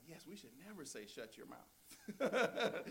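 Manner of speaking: put-on slow, pointed child's scolding; a hint of a prim daughter correcting mom; prim little girl. Daughter correcting her mother, slow prim child voice. Daughter primly quotes the phrase.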